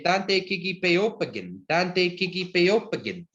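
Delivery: "Tante Kikipeopagan" said slowly and clearly, syllable by syllable, for learners; Cree question modelled. Shown as a demonstration. Teacher modelling Cree for the class, slow and clear. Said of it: "We say".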